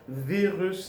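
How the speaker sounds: French "virus" with the final S sounded; "virus" with its last S clearly pronounced. Shown as a demonstration. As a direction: say "virus" the French way, ending on an audible S. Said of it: "gonna be pronounced that S".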